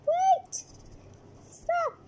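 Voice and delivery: high urgent shouts; shouting. Acted. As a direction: yell to stop them. Rushing in to stop arrest.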